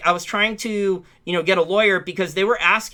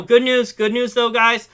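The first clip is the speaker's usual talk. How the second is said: excited; 7 semitones higher, 5 dB louder than usual. Real, not acted. Announcing good news after bad.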